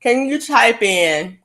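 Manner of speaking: talking around ice cubes; words past ice in the cheek; ice in mouth. Real, not acted. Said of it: "I got ice in my mouth. That's why I'm so quiet".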